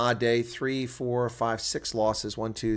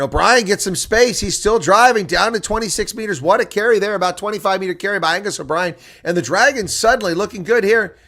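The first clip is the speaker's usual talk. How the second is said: much higher and louder, rising with the run; excited play-by-play; 9 semitones higher, 10 dB louder than usual. Acted. Commentator calling O'Brien's long carry, excited live play-by-play. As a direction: call the break like the crowd's on its feet.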